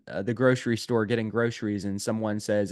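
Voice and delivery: ordinary talk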